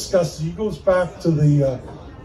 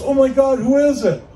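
high, louder startled cry; shocked; 8 semitones higher, 6 dB louder than usual. Acted. Woman coming home to a body, high and shocked. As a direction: gasp it out in horror. Woman finds dead man.

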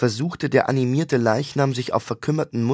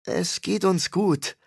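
calm; 7 semitones higher, slower than usual. A narrator's reading. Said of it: "antwortete Joan ruhig".

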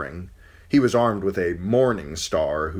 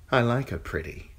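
put-on sneering young king, snapping; cruel boy king; 6 semitones higher than usual. A narrator's reading. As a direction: spoilt boy king barking. Joffrey voiced in story.

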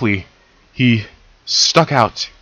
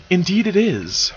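agreeing; 8 semitones higher than usual. Acted. Celestia agreeing.

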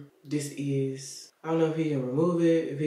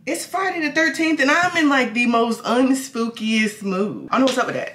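much higher and louder, perky; upbeat and bright; 8 semitones higher, 7 dB louder than usual. Real, not acted. Greeting viewers, high and loud excited.

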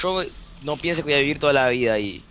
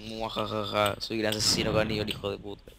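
mustache twirling villain; 2 semitones lower than usual. Pretend. Plays evil cannibal sheep killer.

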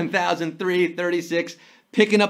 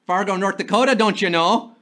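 put-on Midwestern accent. Imitates Fargo's Midwestern accent.

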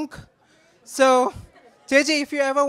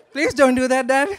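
laughing through a mock plea; 5 dB louder than usual. Real, not acted. Brother at wedding toast begs dad, laughing. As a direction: giggle it out, begging dad to spare him.

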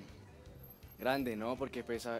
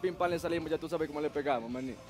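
fast, bouncy Dominican street voice, higher; Dominican accent; 4 semitones higher, 4 dB louder than usual. Shown as a demonstration. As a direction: play your Dominican character, pitched up. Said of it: "tengo un personaje que habla así". (acento dominicano acelerado y brusco)

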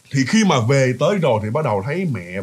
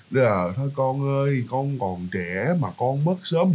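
slow, soft, even drone of the exorcist; hypnotic monotone; 3 semitones lower, 5 dB quieter, slower than usual. Retold or imitated. Exorcist chanting over the kneeling mother, soft slow monotone. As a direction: lull her like a hypnotist, softly. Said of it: "giống như thôi miên vậy nghe".

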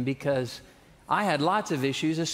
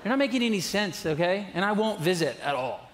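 fast, higher, laughing mock threat; joking teen threat; 3 semitones higher than usual. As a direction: tease grandma like a cheeky teen.

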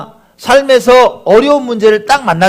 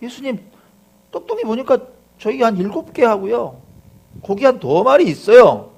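disciples answering; 4 semitones higher than usual. Acted. Disciples reporting their food to Jesus, tentative reply. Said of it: "제자들이 뭐라고 대답해요?".

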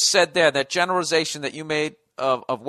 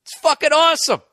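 mock enthusiasm; 8 semitones higher, 4 dB louder than usual. Sarcastic punchline.

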